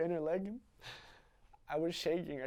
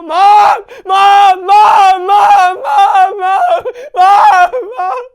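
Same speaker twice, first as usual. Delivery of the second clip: much higher, much louder repeated screams; screaming; 26 dB louder, much slower than usual. Acted. Boy screaming for his mother at a car, full scream. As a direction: scream her name with everything. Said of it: "And I just started screaming".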